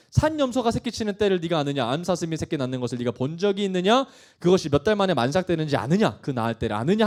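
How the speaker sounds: emphatic, driving rhetorical questions; forceful scripture reading. Acted. God questioning Job about creation, forceful. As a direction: read it out as God's challenge. Reads God's questions aloud.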